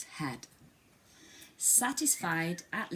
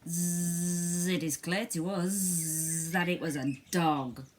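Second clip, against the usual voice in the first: buzzing flies; slower than usual. Acted. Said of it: "buzzed the flies".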